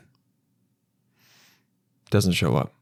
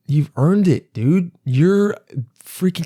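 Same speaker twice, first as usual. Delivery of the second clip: hyped-up praise; 6 semitones higher, slower than usual. Retold or imitated. Comedian hyping up the bus driver, excited praise. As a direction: voice jumping higher, pumped and cheering. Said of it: "'cause I go".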